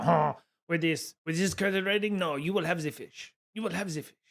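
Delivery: a hint of a haughty French maitre d'; mild mock French snobbery; snooty French accent. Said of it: "a snooty French accent".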